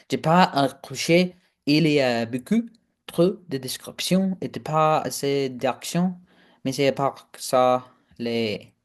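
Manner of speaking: French read aloud. Acted. Reviewer attempting to read a French book review aloud, halting French.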